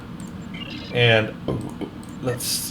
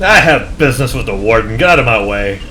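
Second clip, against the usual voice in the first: commanding officer; 7 dB louder than usual. Acted.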